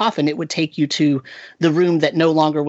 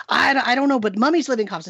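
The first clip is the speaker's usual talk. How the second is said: put-on higher, hesitant boy voice; a stumbling teen with the pitch raised; unsure kid, pitched up; imitating the kid; 7 semitones higher than usual. GM quoting unsure teen player.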